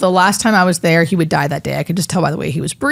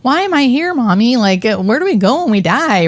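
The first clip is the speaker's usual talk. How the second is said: lightly voiced curious little girl, higher; little girl asking; 5 semitones higher than usual. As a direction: ask it like a wondering child, a few notes up. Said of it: "this little girl who's".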